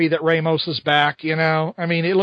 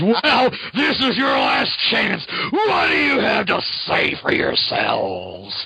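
mock menace; 3 semitones higher, slower than usual. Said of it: "Spider-Man says".

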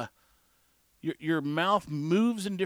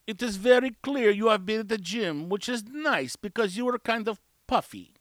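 mock blunt verdict, pitched higher; imitated bluntness; 4 semitones higher than usual. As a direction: state it bluntly, no easing in. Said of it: "there's no easing into things".

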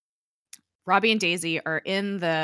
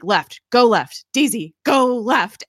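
acted frustration, building louder and higher; frustrated; 5 semitones higher, 8 dB louder, slower than usual. Gang member shouting directions at Daisy, increasingly frustrated. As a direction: repeat it louder, stretching the last order. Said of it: "gets frustrated".

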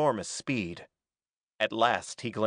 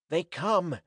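raised, mildly urgent warning; a touch of panting alarm; panted warning; 5 semitones higher than usual. A narrator's reading. Sarja warns that frogmen come, mildly panted warning. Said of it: "he panted".

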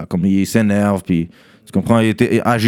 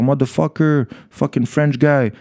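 mock angry tough guy; 4 semitones higher than usual. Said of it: "il sort".

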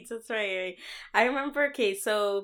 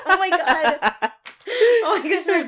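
laughing through the words, high and loud; 9 semitones higher, 8 dB louder than usual. Real, not acted. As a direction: crack up at your own slip. Laughing at own voice crack.

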